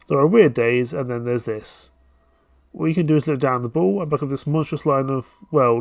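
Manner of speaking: usual speaking voice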